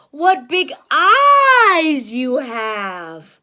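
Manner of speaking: very slow, loud wondering; amazed. Acted. Red Riding Hood wondering at granny, very slow. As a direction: marvel at the eyes.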